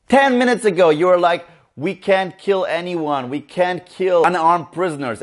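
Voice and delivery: exasperated, hammed-up disbelief; acted incredulity. Acts own outrage at Anakin's turnaround.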